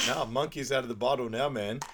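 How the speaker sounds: a hint of a dopey philosopher; imitating Saul. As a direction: deliver it like stoned wisdom. Quoting Saul's stoner wisdom.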